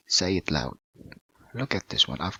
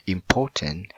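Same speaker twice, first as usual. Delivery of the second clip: "Important" with the beat on "por"; stress on second syllable. Shown as a demonstration. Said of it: "in the port or the second syllable".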